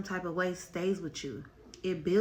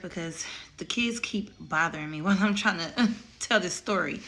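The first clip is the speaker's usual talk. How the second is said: laughing while talking; 4 dB louder than usual. Real, not acted. Laughing while kids interrupt her.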